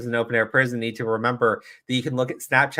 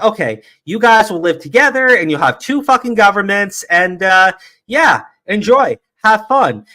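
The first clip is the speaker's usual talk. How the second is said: higher, louder, breezy mock reassurance; flippant send-off; 7 semitones higher, 5 dB louder than usual. Streamer playing Europeans dismissing two peoples, mock-cheery send-off. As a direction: hand it over glibly, slowing on the sign-off.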